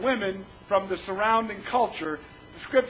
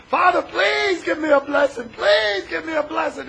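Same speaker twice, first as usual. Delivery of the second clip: mildly pleading, pitched up; tearful begging; 4 semitones higher than usual. Retold or imitated. Son begs his father for a blessing, mock tearful pleading. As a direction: imitate a grown man begging. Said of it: "he's crying, he's begging his father".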